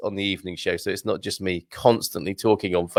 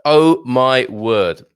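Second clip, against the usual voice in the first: savouring; 5 dB louder, much slower than usual. Real, not acted. Tasting the fig live.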